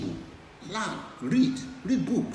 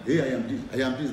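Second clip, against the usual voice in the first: mock bragging; 4 dB louder, faster than usual. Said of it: "Don't go and be advertising".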